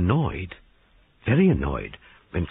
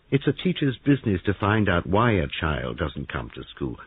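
pressing detective; 2 semitones higher than usual. Acted. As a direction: lay out the evidence like closing a trap. Detective accuses heroine.

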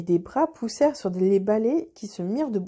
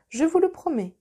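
solemn; 7 semitones higher than usual. A narrator's reading. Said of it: "dit solennellement Florian".

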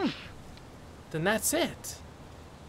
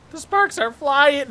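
louder alarm; 4 semitones higher, 4 dB louder, slower than usual. Real, not acted. Repeats it louder in panic.

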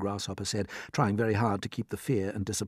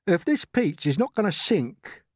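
slow, loud, pitched-up grumble; gloomy earthworm; 10 semitones higher, 5 dB louder than usual. Acted. Earthworm warns everyone on the Peach, gloomy. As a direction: complain as a doom-laden earthworm.

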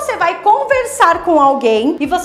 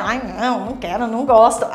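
disgusted refusal; 6 semitones lower than usual. Shown as a demonstration. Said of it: "A expressão vai assim".

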